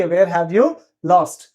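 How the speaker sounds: very slow, word by word for learners; slow drill. Shown as a demonstration. Teacher to Hindi students, drilling the phrase very slowly. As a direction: spell it out slowly so students can repeat.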